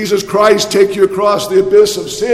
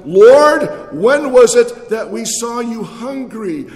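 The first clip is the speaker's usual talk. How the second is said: the righteous asking; 5 semitones higher than usual. Acted.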